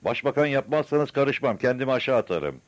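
high, loud shouted threat; bawling madman. A narrator's reading. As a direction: yell your ultimatum from the roof. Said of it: "Deli bar bar bağırıyordu".

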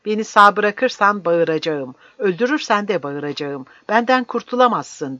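stubborn, heated declaration; defiant vow. Acted. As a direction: refuse to be silenced. Old man vows to keep shouting.

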